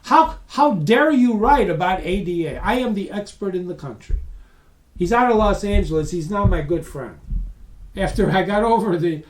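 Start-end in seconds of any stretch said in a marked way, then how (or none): 0.0-4.2 mock angry yell. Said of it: "this guy's yelling".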